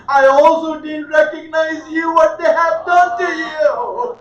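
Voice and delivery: tearful pleading. Acted. A daughter cries out to her father's head, tearful and breaking. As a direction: voice cracking and rising, crying out to her father.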